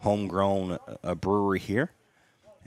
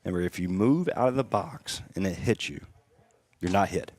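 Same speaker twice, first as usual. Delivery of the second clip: sarcastic. Real, not acted. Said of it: "And I'm saying that very sarcastically".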